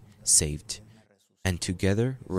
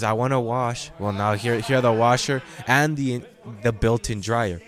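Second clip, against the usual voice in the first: wife demanding; 3 semitones higher, 6 dB louder than usual. Retold or imitated. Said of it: "your wife says".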